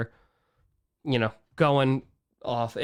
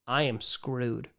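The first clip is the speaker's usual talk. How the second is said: slow, softer, resigned; grim and quiet; 3 semitones lower, 6 dB quieter, slower than usual. Real, not acted. Streamer talking about getting sick, slow resigned quiet. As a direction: let it sink heavily. Worrying about illness with no safety net.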